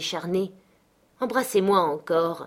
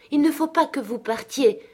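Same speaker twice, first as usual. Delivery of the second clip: much higher, pleading protest; clinging plea; 8 semitones higher, 3 dB louder than usual. A narrator's reading. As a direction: plead to hold him back. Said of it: "répondit-elle en le retenant aussi fermement". (protestation suppliante, voix haute)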